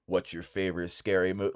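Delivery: a hushed, low imitation of a phone stalker; Ghostface. Quoting the slasher's famous phone line, low and menacing. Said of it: "the voice for Ghostface".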